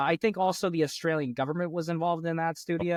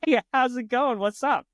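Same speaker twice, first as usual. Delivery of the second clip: higher, louder pickup greeting; hammed-up, pushy opener for sliding into DMs; mock come-on; 7 semitones higher, 4 dB louder than usual. Joking about messaging a reality star, hammed-up come-on. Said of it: "I didn't talk like that".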